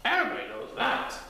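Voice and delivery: quick bouncy critter voice; high, fast Titter. A narrator's reading. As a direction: rattle it off, bouncing.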